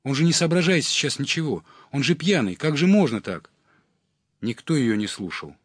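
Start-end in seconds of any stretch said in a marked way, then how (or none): 0.0-3.5 high, loud reproach; indignant shouting. A narrator's reading. Redhead scolds the men egging on a drunk, indignant shout. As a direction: appeal loudly to their conscience. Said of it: "кричала рыжая".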